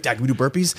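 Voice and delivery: put-on high eager kid voice; little kid voice. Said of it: "He'd be like".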